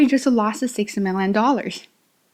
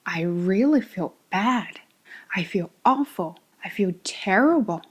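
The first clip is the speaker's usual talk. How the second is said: mildly downcast, expressive; feeling bad, with intonation. Shown as a demonstration. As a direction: lean gently on the bad feeling. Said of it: "you could have a little bit intonation".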